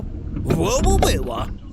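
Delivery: alarmed shouting whoa. Real, not acted. Near miss at the light.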